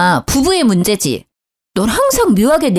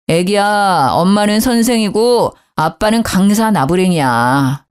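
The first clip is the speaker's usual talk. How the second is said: mock wife voice to baby; 4 semitones lower than usual. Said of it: "이럴 거지?".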